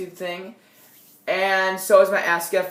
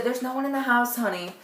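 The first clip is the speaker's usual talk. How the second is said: high, light imitation of a mother; reassuring mom voice; 5 semitones higher than usual. Mother telling teen nobody is there, high imitated reassurance. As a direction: lift the voice into motherly soothing.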